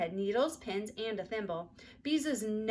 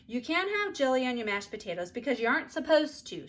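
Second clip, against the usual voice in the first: louder, a little higher cross sister; 4 semitones higher, 6 dB louder than usual. A narrator's reading. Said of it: "said Beezus crossly".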